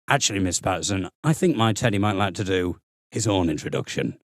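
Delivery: put-on a five-year-old trying to sound grand; lightly deepened precocious boy; deep-voiced child. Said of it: "My voice wasn't as low as that".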